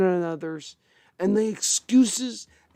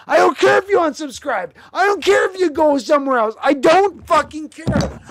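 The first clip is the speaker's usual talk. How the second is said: higher, heated I don't care; defiant rant; 6 semitones higher than usual. Real, not acted. Streamer telling viewers he doesn't care, heated. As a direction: throw it at them, defiant.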